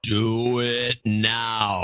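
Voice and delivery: slow echoing demon command; demonic layered voice. Acted. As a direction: drag it out like a demon. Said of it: "Adam in demon voice".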